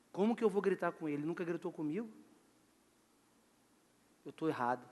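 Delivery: low, soft voice of a son thinking of his parents; quiet, humbled admission, almost to himself; imagined son reflecting. Acted. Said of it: "vai falar assim".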